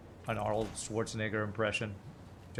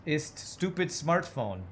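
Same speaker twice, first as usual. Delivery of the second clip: put-on higher, slow stab at German accent; attempted German accent; 5 semitones higher, slower than usual. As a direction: try out a mock German accent slowly. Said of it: "the German accent".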